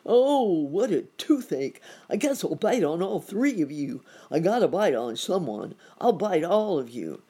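loud, high alligator wailing; crying out in pain. A narrator's reading. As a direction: bellow a hammed-up toothache threat. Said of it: "and cried out".

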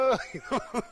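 high mock bawling; imitated child's crying. Father imitating his little boy in tears, mock bawling. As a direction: bawl like a little boy, hammed up. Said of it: "My little boy's crying".

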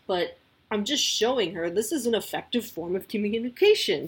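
ordinary talk

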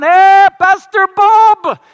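high, loud, very slow call from far above; shouting down the shaft. Retold or imitated. Muslim neighbour calling down the shaft to the pastors, loud slow shout. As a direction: holler down the elevator shaft to the trapped men. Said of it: "he's shouting down".

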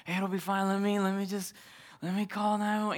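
tag. Retold or imitated. Husband soothing panicking wife.

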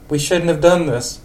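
put-on high old lady voice, scared. Old lady Marge tells Ned she's scared. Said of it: "old lady for Marge".

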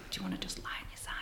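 quick, breathy whisper; hushed quick request; whispered quote. Retold or imitated. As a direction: whisper it fast so no one else wakes. Whispering to a snoring stranger at night.

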